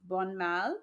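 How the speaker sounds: French-sounding pronunciation of Bonmal; French accent. Real, not acted. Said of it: "I'm saying that with a French accent".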